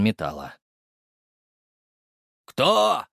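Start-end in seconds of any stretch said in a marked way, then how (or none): 2.4-3.1 tense trembling voice. A narrator's reading. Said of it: "Голос из-за двери дрожал от напряжения".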